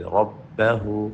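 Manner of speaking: ربه slowly, with a heavy ra and a clipped stop on the ba; stopped ba. Shown as a demonstration. Teacher showing the stopped ba in ربه. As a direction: read ربه slowly and cut the ba short. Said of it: "با کو break کرے".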